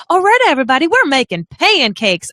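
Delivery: botched Australian morning-show host, slipping toward Southern; attempted Australian accent. Host mocking a chirpy Melbourne morning show, attempted Australian accent. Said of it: "I can't do Australian".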